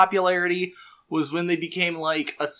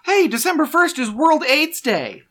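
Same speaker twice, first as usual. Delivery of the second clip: GLaDOS voice; 10 semitones higher than usual. Acted. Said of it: "turn it over to GLaDOS".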